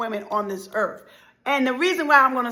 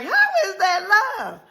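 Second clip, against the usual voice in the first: high, slow, tearful plea; crying question; 8 semitones higher, slower than usual. Retold or imitated. The crowd asking through tears, how is that love. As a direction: ask it like you're about to cry. Everybody's incredulous reaction.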